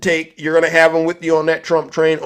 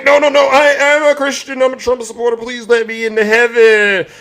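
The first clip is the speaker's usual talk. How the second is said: higher, hammed-up begging; mock pleading; 4 semitones higher than usual. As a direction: plead your case in mock panic. Marcus pleads at pearly gates.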